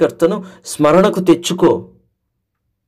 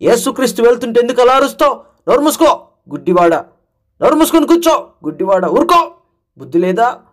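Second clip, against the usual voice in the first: fast, scolding crowd snapping at a beggar; rebuking; 4 semitones higher, faster than usual. Acted. Crowd rebukes the blind man to shut up, fast scolding. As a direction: hurry the words, annoyed and dismissive. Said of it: "గద్దిస్తున్నారు".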